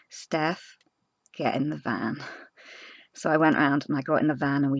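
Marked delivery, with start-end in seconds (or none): 0.1-2.2 softer, steady retold calm instruction; calm, firm. Partner calmly telling panicking Steph to get in. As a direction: settle her down gently. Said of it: "he very calmly said to me".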